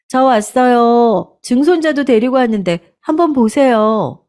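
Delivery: put-on a young wife cheerfully presenting her son; bright cheerful greeting.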